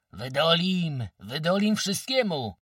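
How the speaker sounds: high, loud, elated shout; joyful cry. A narrator's reading. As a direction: cheer it out with full confidence. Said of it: "wołali radośnie".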